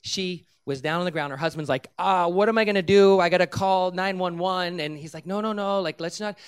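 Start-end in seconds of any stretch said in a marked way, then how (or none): 2.0-4.8 loud, higher imitation of a panicking husband; mock panic. Husband panics as wife collapses. 5.3-6.4 hasty dissuasion. Retold or imitated. Hurried plea against calling for help.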